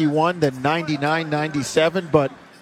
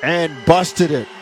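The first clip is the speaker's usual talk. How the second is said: brisk live game call; play-by-play. Acted. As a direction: call the action as it happens.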